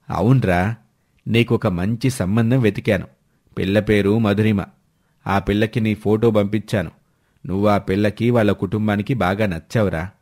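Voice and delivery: a hint of a persuading uncle, low; matchmaking uncle.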